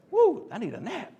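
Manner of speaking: giggly self-mocking aside; laughing at himself. Real, not acted. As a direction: chuckle it out after the slip. Laughs at own slip-up.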